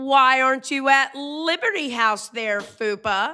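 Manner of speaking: slow, teasing, sassy tone. Retelling walking up to Fupa on the couch: retelling own sassy remark. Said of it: "wanted to be a little sassy".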